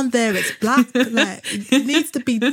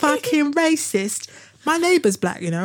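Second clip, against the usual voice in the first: lightly hammed-up indignant denial; mock offended racist; 3 semitones higher than usual. Co-host imitates a racist defending themselves, mock indignant. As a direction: protest as if wrongly accused. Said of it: "being called racist".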